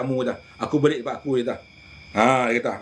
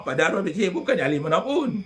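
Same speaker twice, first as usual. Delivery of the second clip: 1 laughing while talking. Real, not acted. Laughing remembering Mat Cik.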